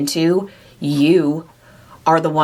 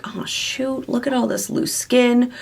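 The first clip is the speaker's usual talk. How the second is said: higher, hushed mock dismay at her loose skin; dismayed groan; 7 semitones higher than usual. Herself in a bathing suit, seeing her loose skin, mock dismay. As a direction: sigh it out like catching yourself in the mirror. Dismayed at own body in swimsuit.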